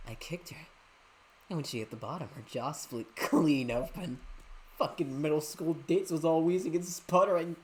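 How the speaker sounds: villain savouring the cruelty; lightly voiced gloating villain. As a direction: gloat over it. Voicing villain in game.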